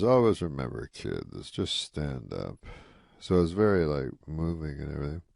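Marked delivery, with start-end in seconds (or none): 0.0-2.7 Rodney's heavy advice. Retold or imitated. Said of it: "He goes".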